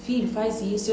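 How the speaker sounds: a quiet fatherly word; soft voice of God. Pretend. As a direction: say it gently, close and calm. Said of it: "Ele vai continuar dizendo".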